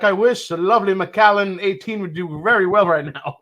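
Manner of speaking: bad put-on Scottish accent; deliberately terrible Scottish brogue. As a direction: ham up a Scottish pilot dreaming of whisky. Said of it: "my attempt at a terrible Scottish accent".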